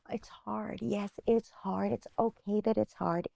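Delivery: a soft, kind word to yourself; lightly voiced reassurance, mostly plain; gentle self-talk. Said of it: "to say to herself".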